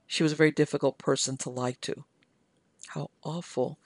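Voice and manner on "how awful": softer, quietly solemn. A narrator's reading. Maggie hears of the lost crew, softly solemn. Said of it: "quite solemn".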